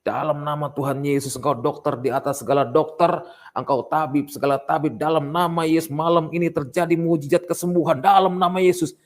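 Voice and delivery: revival-style prayer rising to a peak; re-enacted healing prayer. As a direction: proclaim healing with mounting force. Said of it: "Saya sambil berdoa juga deg-degan".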